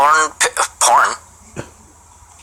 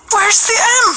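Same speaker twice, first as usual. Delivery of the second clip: very high, baffled squeak. Acted. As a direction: sound totally thrown by it. Bewildered by a spelling.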